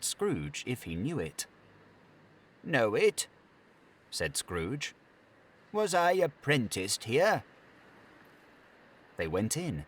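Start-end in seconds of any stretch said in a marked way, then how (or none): 2.6-3.3 a higher, louder startled question; taken aback, recognizing the place; surprised. Acted. Scrooge surprised at warehouse. 5.7-7.4 much higher, louder astonished question; delighted disbelief at an old memory; amazed. Acted. Scrooge recognizes his old workplace.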